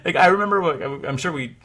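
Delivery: ordinary delivery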